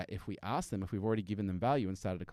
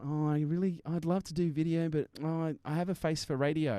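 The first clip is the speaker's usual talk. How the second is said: higher-pitched mock excuse-making; reluctant listeners; 5 semitones higher than usual. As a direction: imitate a hesitant would-be video maker. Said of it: "those people listening and are going".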